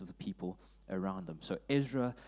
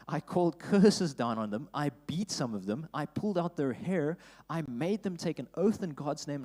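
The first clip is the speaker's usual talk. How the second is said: louder, forceful reading of the rebuke; fierce reading; 4 semitones higher, 5 dB louder than usual. Acted. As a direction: read it like a man swinging his fists.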